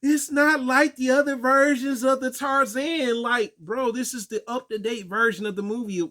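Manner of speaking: mock outraged shout at a noisy moviegoer; fed-up outburst. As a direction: tell the talker off, voice cracking up. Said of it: "everyone's just looking at him like".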